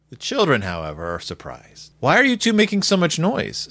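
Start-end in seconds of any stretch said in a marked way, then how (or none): 2.0-3.7 put-on higher-pitched child's question; lightly voiced puzzled little girl; wondering sister. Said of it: "Sister wonders".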